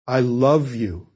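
slow, with "love" drawn out and weighted; "love" stretched as the key word; stress on LOVE. Shown as a demonstration. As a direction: lean hard on the word "love". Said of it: "to show the speaker's emphasis".

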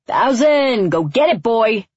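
loud, high eager call to a dog; enthusiastic. A narrator's reading. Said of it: "said very enthusiastically".

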